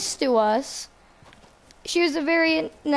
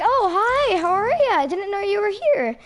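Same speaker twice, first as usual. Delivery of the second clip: higher, brighter mock-polite hello; nervous kid greeting; 6 semitones higher than usual. A kid greeting their teacher at a store, lightly voiced nervous politeness. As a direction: chirp it like a shy kid meeting their teacher.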